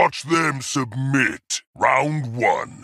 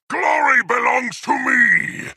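high-pitched triumphant shout; triumphant battle cry; 12 semitones higher than usual. Acted. Warlord claiming glory over the Spartan, high triumphant cry. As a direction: cry it out as a boast.

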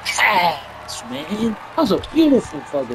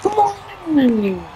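frustrated shout; 13 semitones higher, much slower than usual. Real, not acted. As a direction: shout it out at the play. Yelling at the game.

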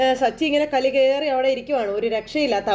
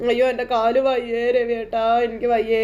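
crying. Retold or imitated. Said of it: "എന്നും പറഞ്ഞ് കരച്ചില്ല".

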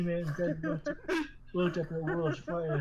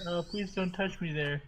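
stammering; 3 semitones higher than usual. Acted. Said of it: "She stammered".

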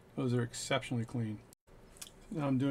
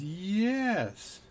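bartender answer; 8 semitones higher, 4 dB louder than usual. Retold or imitated. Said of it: "And he goes".

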